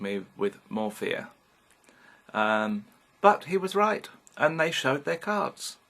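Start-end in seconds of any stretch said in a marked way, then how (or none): 3.2-5.8 triumphant emphasis. Real, not acted. Vindicated by John's warning.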